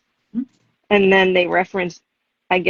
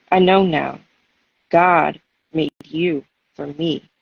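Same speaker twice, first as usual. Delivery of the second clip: poem reading. Acted. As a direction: let each image land with pauses between phrases. Reads her poem aloud.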